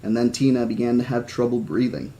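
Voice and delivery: measured audiobook-style reading; story narration. A narrator's reading. Reading a novel about an injured girl to listeners, story narration. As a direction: read the story aloud with lightly voiced dialogue.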